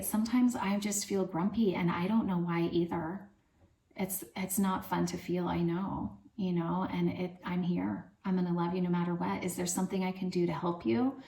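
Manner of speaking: gentle comforting. Shown as a demonstration. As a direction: stay close and calm the child. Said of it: "again, attune".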